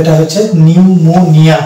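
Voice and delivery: slow, careful নিউমোনিয়া with silent p, starting on n; teacher modelling pronunciation. Shown as a demonstration. Teacher drills students: slow নিউমোনিয়া said without p. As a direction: say নিউমোনিয়া slowly, no p sound. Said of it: "পরবর্তী letter এন দিয়ে আমাকে উচ্চারণ করতে হবে".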